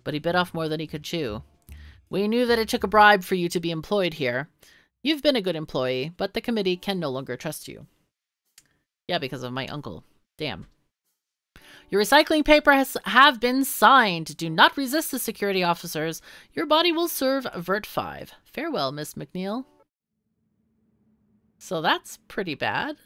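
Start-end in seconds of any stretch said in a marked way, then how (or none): 0.0-7.9 stern official voice. Acted. Reads game character dialogue. 11.9-19.6 cold official voice. Acted. Reads game character dialogue.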